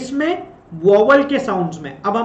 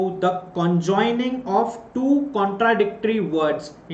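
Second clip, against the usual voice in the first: slow dictation; much slower than usual. Shown as a demonstration. Dictating the definition slowly.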